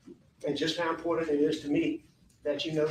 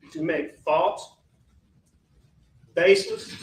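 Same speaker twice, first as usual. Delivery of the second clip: indignant build; 6 dB louder than usual. Real, not acted. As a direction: hammer each word as the anger rises. Defendant angrily denies claims.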